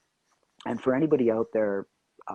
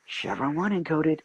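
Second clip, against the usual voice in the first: slow, higher-pitched announcement; performed audition line; 5 semitones higher than usual. Retold or imitated. Actor doing the same stuff at a callback, performed announcement. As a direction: draw out the technical call with some show. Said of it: "they just want the same stuff".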